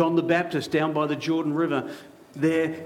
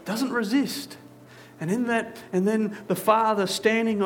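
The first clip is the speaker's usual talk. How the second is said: building intensity; 6 semitones higher than usual. Acted. Climactic moment of the story.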